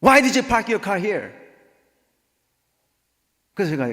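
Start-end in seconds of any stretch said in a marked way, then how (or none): 0.0-1.3 high, loud furious demand; angry neighbor. Retold or imitated. Neighbor ignoring the greeting to demand about the car, angry. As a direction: shout it accusingly as the irate neighbor. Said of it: "화가 났어요".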